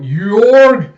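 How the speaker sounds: long, high full shout of a name; retold desperate scream; anguished yell. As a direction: bellow after a betrayer. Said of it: "crawling out".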